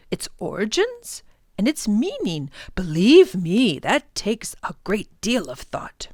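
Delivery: lightly voiced old scholar; musing about life earnestly; gentle old man voice; thoughtful professor. Professor explaining.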